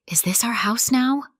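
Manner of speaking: put-on child's whisper, a bit too loud. A narrator's reading. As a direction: whisper it, but too loudly. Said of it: "whispered too loudly".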